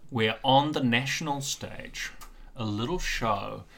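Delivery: slow, hushed storyteller setting the scene. Acted. Host invites listeners back in time, slow dramatic narration. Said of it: "Cast your mind back, listener".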